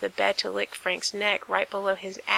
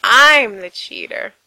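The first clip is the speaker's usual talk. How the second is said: loud; 2 semitones higher, 12 dB louder than usual. Acted. Gerard owning being the cheater.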